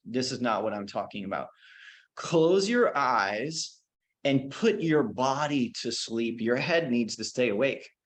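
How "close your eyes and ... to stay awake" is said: slow, drawn-out meditation guidance; guided meditation. Acted. Teacher guiding the class to put the body to sleep, slow and calm. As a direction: ease them into the exercise, slowly. Leads a body relaxation exercise.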